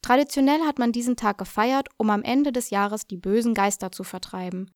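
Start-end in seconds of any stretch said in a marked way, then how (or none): none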